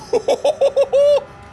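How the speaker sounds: loud, very high "woo-hoo-hoo" whoop; high whooping laugh. Real, not acted. Driver celebrating mid-race, high whooping laugh.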